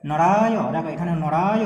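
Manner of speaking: নরায় drawn out slowly as "noraayo"; slow, loud demo of নরায় with open ending; open final vowel. Shown as a demonstration. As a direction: stretch the আ and sound a vowel after য় in নরায়. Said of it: "হসন্ত নেই বলে নরায়".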